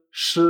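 "sh" as Chinese shi, held without i; silent I. Shown as a demonstration. Teacher recalling initial sounds, "sh" with silent I. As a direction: sustain "sh" with no i vowel. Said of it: "la I no se pronuncia".

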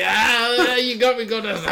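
high, loud hammed-up cry of pain; exaggerated howling impression; mock agonised wail. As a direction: wail it through laughter like an injured wrestler. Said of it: "He's like".

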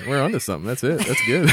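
hammed-up excited brewer; mocking a brewer pleased with himself; mock proud brewer. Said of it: "Somebody at the brewery was like".

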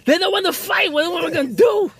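high, loud, hammed-up French accent rising to a shout; mock French Napoleon. Joking about Napoleon baffled that Russia won't fight, hammed-up French accent. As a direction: play a flustered Napoleon, laughing into a squawk. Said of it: "We knew Napoleon was probably like".

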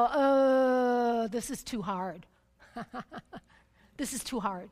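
sag into it like you've had enough; mock defeated sigh. Preacher recalling giving up on writing, mock defeated. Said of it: "all of a sudden I go".

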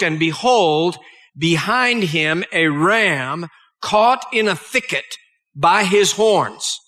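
measured, solemn Bible reading; solemn scripture reading to a congregation. Acted. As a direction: read the old King James words with weight. Reads Genesis passage aloud.

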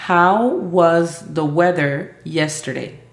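slow, deliberate English; slow flashcard prompt. Shown as a demonstration. Teacher quizzing Aimee with flashcards, slow. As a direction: read the card slowly.

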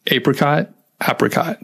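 repeating apricot as a warm-up; vocal warm-up word. Shown as a demonstration. Host leading a warm-up: repeated "apricot". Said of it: "and then apricot".

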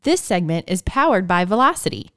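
lively sponsor read. Acted. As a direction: deliver it like a podcast sponsor spot. Reads a sponsor ad.

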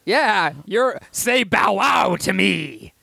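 talking to a puppy. Pretend. Talking to friend like a dog.

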